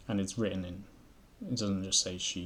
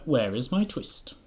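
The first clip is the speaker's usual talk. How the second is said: tailor's demand; 4 semitones higher, 5 dB louder, slower than usual. A narrator's reading. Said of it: "said the tailor".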